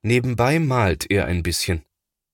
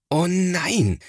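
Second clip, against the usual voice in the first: high, exasperated "Oh nein" falling on "nein"; a brother fed up with the mess; scolding exclamation; 11 semitones higher than usual. A narrator's reading. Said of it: "schimpft Thomas". (schimpfendes "Oh nein", am Ende fallend)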